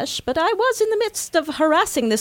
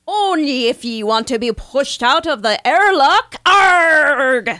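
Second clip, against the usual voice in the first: growling pirate with a shout; 4 dB louder than usual. Pretend. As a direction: roar it like a buccaneer. Pirate persona continues threat.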